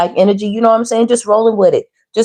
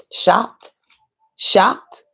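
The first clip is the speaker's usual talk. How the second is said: whispered shocked; 3 semitones higher than usual. Acted. Reader acting out shock.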